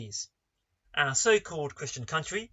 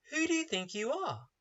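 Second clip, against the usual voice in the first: raised, pointed rhetorical question; questioning retort; 6 semitones higher, 4 dB quieter than usual. Shown as a demonstration. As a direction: push the question at the listener. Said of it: "That is the rhetorical question".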